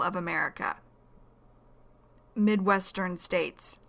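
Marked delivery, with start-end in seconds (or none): 2.3-3.8 "Midwestern states" said slowly, each syllable distinct; slow and clear. Shown as a demonstration.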